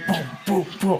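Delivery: thumping booms, evenly spaced; spoken heartbeat thuds; imitated heartbeat. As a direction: sound out a pounding heart. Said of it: "I could feel my heart beating".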